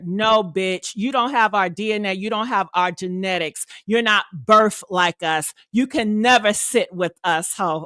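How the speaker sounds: low, dismissive snobby put-down; cold put-down. Retold or imitated. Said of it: "They made it clear".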